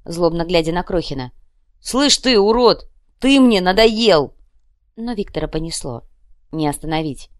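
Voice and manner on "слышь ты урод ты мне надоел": high, loud, slowing threat; menacing shout. Acted. Leshy threatening the scrawny lad, loud menacing shout. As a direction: lean in and threaten him.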